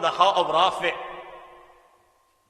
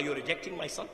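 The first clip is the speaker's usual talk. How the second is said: low-key, softly spoken question; quiet, understated disbelief; subdued protest; 3 semitones lower, 8 dB quieter than usual. Retold or imitated. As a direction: ask it softly, voice falling away. Father's first, subdued take of protest.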